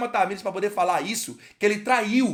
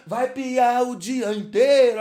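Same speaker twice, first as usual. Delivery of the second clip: slow, stretched-out playful cry; hyped catchphrase; 3 semitones higher, 4 dB louder, much slower than usual. Pretend. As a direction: draw each word out teasingly. Catchphrase continued. (bordão arrastado e brincalhão)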